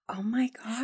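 breathless whispered disbelief; shocked whisper. Real, not acted. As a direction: gasp it out under your breath. Reacting shocked to breakup story.

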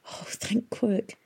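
slow relieved whisper; boy whispering in relief as she returns. A narrator's reading. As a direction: breathe it out in relief, slowly. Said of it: "he whispered".

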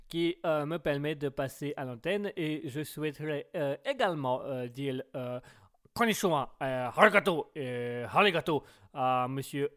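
put-on caricatured Chinese accent, last syllables echoed; petite Chinoise. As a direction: play a little Chinese woman with a verbal tic. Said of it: "On va faire la petite chinoise". (accent chinois caricatural avec tic verbal)

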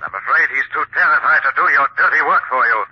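usual speaking voice

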